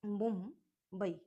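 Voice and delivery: slow classroom model word; slow drawn-out. Shown as a demonstration. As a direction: draw out मुंबई for students. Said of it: "ठीक है, एम यू एम".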